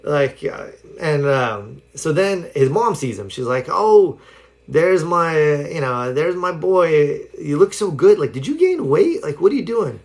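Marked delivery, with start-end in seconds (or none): 3.7-10.0 lightly voiced gushing mom, pitch lifted; doting mom. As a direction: gush a little, as a proud mother would. Mom fawning over her son.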